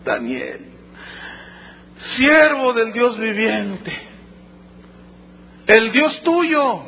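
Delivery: drawn-out, sorrowful cry; mournful calling out. Acted. Anguished king calling Daniel in the lions' den, sorrowful calling voice. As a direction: call out slowly with a touch of grief. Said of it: "llamó a voces a Daniel con voz triste".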